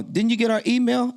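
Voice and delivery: high, surprised question; mock surprised caller. Caller asking about the email, high. Callers voiced in phone retelling.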